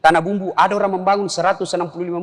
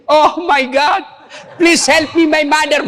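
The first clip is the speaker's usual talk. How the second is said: mock English prayer; 5 semitones higher, slower than usual. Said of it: "berdoa pakai bahasa Inggris".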